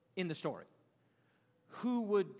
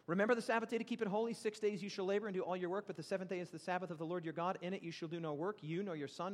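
scripture reading. Acted. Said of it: "I'll read it to you".

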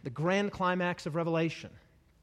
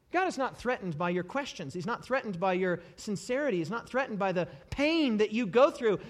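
ordinary talk

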